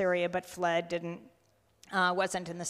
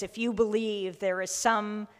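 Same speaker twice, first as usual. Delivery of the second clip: mild, emphatic plea, slightly raised voice; retold pleading; 2 semitones higher, 6 dB louder than usual. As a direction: voice his appeal with measured insistence. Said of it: "He's begging, he's pleading".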